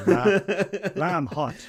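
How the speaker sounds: barked computer command, high and loud; loud robotic order. Pretend. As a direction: call it out like a Star Trek replicator order. Replicator order gag.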